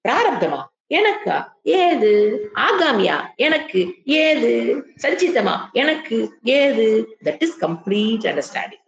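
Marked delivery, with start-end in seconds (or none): 0.1-7.2 mock disbelief, playful; scoffing sage. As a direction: brush each fear aside with a laugh in the voice. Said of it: "முழுசா தாண்டணும்னா எங்க வரணும்".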